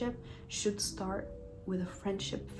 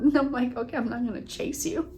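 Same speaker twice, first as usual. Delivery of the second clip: laughing; 4 semitones higher, 5 dB louder than usual. Real, not acted. Laughing at him storming off.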